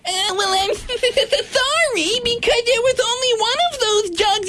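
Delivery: whiny voice. Pretend. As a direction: whine defensively like a rude shopper. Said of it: "fat, broad, whiny bitch voice".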